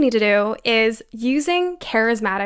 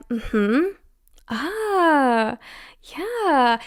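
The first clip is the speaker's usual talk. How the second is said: engaged listener sounds; 2 semitones higher, much slower than usual. Shown as a demonstration. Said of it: "Even words like".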